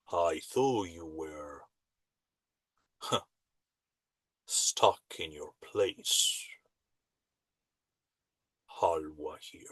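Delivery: very low, very deep voice. Speaker quotes an opponent finally speaking, in a very low, deep voice. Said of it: "a very low, deep voice".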